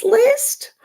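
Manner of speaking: high breathy whispered word. Acted. Teacher reading the prompt aloud in a whisper. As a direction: let the word float up as a whisper.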